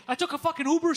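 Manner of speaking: high, loud exasperated retort; worked-up mock yell; retold yelling. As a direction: fire back, fed up. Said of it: "he's just yelling all the time".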